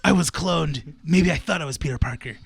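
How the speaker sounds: low, solemn confession; mock hero monologue. Continues the mock superhero monologue.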